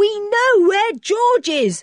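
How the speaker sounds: excited, eager cry, very high-pitched and loud. Dick runs in to tell Anne and Joanna the news, an excited cry. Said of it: "cried Dick".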